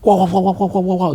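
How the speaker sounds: high mock jabber of loud Chinese speakers; mock shouting-match chatter; imitating loud Chinese talk. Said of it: "ngomongnya itu keras banget".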